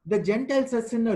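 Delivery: high, sneering mock of Peter's claim. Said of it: "he is actually mocking Peter".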